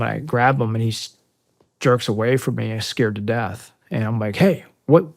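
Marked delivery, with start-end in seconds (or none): 4.3-5.0 higher-pitched urgent questioning; urgent, raised-pitch retold questions; retold urgent demand. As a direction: act out confronting him in disbelief. Confronting a frightened kid in retelling.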